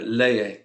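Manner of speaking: "Leye" as LE-ye, second syllable light; first-syllable stress. Shown as a demonstration. Teacher confirming student's try, "Leye" stressed on LE. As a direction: stress LE in "Leye", sounding both vowels. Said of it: "putting the stress over the second to last syllable".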